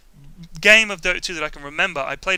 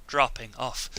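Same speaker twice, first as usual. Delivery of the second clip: slow, soft, eerie whisper; slow eerie whisper of the Bene Gesserit witch; 4 semitones lower, 9 dB quieter, slower than usual. Retold or imitated. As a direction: hiss it slowly like a menacing witch. Witch voiced in a story.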